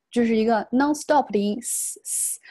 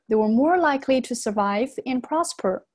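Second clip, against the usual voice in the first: They were more likely to survive and prosper, stopping after prosper; pause after prosper. Shown as a demonstration. Teacher shows where to break, pausing after prosper. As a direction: let prosper close the phrase before a break. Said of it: "我们到这里来做一个停顿".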